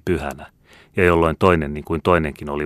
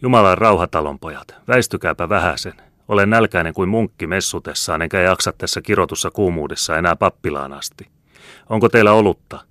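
loud, raised, hearty soldier voice; jovial soldier; 3 semitones higher, 5 dB louder than usual. Acted. Soldier asking farm folk for beer, boisterously. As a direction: boom cheerfully at the whole room.

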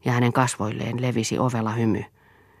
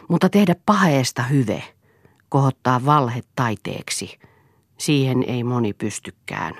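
taunting; 4 dB louder than usual. Acted. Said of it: "sanoi Eero ärsyttäen".

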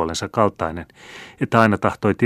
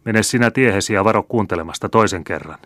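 stern warning; 2 semitones higher than usual. Acted. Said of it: "varoitteli isoäiti ankarasti".

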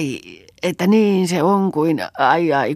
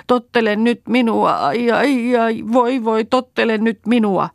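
high, louder scolding with pained moans; 7 semitones higher, 4 dB louder than usual.

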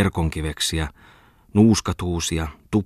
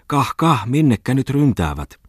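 calling out; 6 semitones higher than usual. A narrator's reading. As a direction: call after the running men.

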